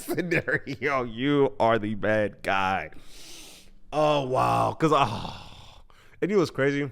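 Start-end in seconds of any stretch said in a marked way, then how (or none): 1.0-2.9 slow emphatic repeat. Shown as a demonstration. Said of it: "repeated slower".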